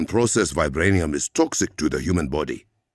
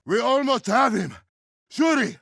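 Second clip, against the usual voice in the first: shouting out. Acted. Calling out in combat.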